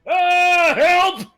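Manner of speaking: high-pitched pained shrieks; acted screaming. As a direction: scream for help as a character being mauled. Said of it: "as I'm screaming it out".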